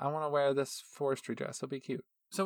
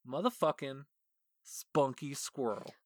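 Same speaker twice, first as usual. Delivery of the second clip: excited build-up. Real, not acted. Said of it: "she was so excited about Spunky Squirrel".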